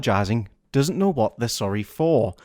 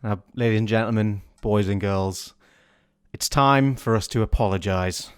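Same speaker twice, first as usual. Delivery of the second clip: announcer voice; 4 semitones lower than usual. Acted. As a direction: introduce the segment like a solemn host. Hosts a game segment.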